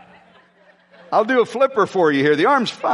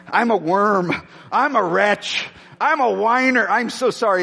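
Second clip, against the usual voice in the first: whining repentance. Retold or imitated. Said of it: "I'm like".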